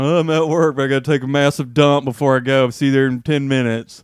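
lightly put-on voice for a friend's texts; a hint of a silly accent, reading out a text; mock texting accent. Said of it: "Do you read my text in that accent?".

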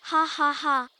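deliberate spoken "ha ha ha"; a mild storybook laugh, each ha separate; acted laughing. A narrator's reading. Monkey mocking the fooled crocodile, acted laughing. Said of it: "laughed the monkey".

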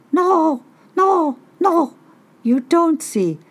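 high, loud teasing bird voice; mocking trickster bird; Raven voice. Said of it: "said Raven".

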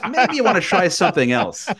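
half-playful imitation of a mother breaking it gently; mother's gentle hint. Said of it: "she goes".

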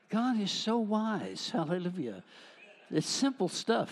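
fervent preacher's high cry; exultant high cry. Real, not acted.

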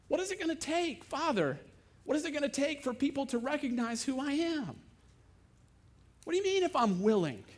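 high, strained frustration; exasperated plea. Acted. Jesus asking the Father what it will take.

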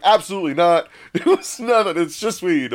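high, insistent mock protest; emphatic denial. Denying lacing to paramedic, acted.

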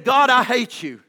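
forceful retold cry to God; angry prayer, punched out; crying out angrily. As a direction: hit it hard, as a preacher reenacting rage. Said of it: "he began to cry out on this hillside".

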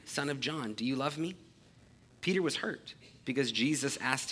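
measured, solemn Bible reading; a steady public reading of scripture. Acted. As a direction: read the passage clearly to the congregation. Reads verses fifteen through seventeen.

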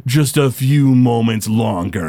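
slow, low, smug villain voice; smiling warlock. Acted. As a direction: savor the threat unhurriedly. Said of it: "he smiles and he says".

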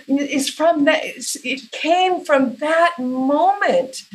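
student breaking down in class, mock tearful; imitating weeping. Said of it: "she was just weeping like".

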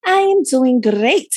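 I am doing great with a rolled r. Shown as a demonstration. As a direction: trill the r in great. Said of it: "Rolling the R's".

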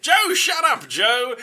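high-pitched mock shout; nagging. Comic Josephine silencing her husband, loud scolding. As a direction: scold him loudly like a fed-up wife.

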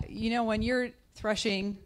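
ordinary delivery

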